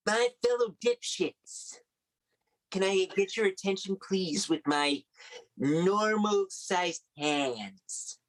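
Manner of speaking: slow, drawn-out mock Trump address; pompous Trump speech, slowed down; Trump impression. Comedian mocks Trump addressing the crowd, slowly. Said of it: "Were you doing a Donald Trump imitation?".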